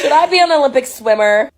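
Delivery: giggling through it, pitch up; delighted with herself, laughing. Retold or imitated. Telling her swim story, she laughs at herself. Giddy self-admiration in the pool.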